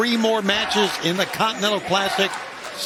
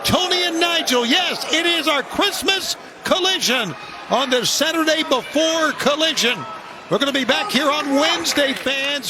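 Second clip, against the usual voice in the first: excited hype; 4 semitones higher than usual. Real, not acted. Live show opening hype.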